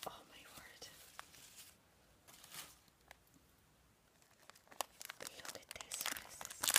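barely audible amazed whisper; awed whisper. Real, not acted. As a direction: breathe the words in disbelief. Opening the gift in awe.

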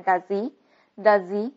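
"does he" linked as "duh-zee"; dropped h. Shown as a demonstration. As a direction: slide the z of "does" into "he", no h. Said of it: "把H去掉了，". (does he 去掉 h 连读)

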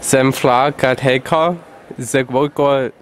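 slow, loud fake German syllables; mock German gibberish. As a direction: bark out slow nonsense German. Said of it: "try again after hearing the video".

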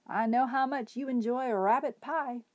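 lightly voiced hobo, teasing; hobo speaking to dog. A narrator's reading. Hobo teasing his dog about rabbit pie, lightly voiced. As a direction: tease the dog gently. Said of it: "said the man".

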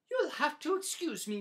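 haughty goose; Goose brushing off Pig. Acted. Goose dismisses Pig, high and loud.

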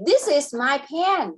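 slow and even, every word apart; slow model sentence. Shown as a demonstration. Tutor prompting student, slow model sentence. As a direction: say "This is my pen." slowly for the child to copy. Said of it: "Now, you say".

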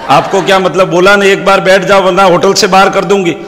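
mildly heated warning; acted annoyance, firm and insistent; irritated receptionist. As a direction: play a receptionist issuing a threat. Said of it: "madam रो दिमाग खराब हुआ".

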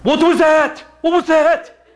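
Jewish imitation. Preacher imitating startled Israelis, Jewish accent. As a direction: ham up a bewildered Israeli voice. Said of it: "That's my Jewish imitation there".

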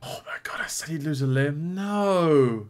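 hushed, stunned near-whisper; soft and moved, holding back tears; close to tears. Real, not acted. Viewer shocked by the lost limb, close to tears. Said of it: "that made me wanna cry".

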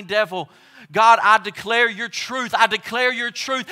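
high, loud proclaiming; bold declaration. Shown as a demonstration. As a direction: declare it over your heart. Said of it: "we've gotta say".

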